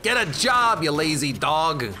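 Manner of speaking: loud playful scolding; mock scolding. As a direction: bark it at a lazy dog. Scolding the in-game dog.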